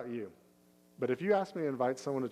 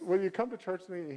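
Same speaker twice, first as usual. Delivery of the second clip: plain, friendly question, a touch higher; simple invite; 6 semitones higher than usual. Shown as a demonstration. Churchgoer asking a friend along, simple and warm. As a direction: keep the ask easy and kind.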